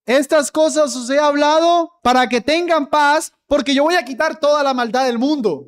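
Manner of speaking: cita falsa en tono más agudo y burlón; versión equivocada. Shown as a demonstration. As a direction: imita la idea errónea, más aguda y rápida. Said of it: "Él no dice". (pastor remeda la cita mal entendida, agudo y burlón)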